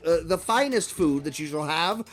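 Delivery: imperious announcement in deliberate phrases; commanding slaver. Acted. Slaver sending captives to the gruel chambers, imperious. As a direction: order silence, then proclaim grandly.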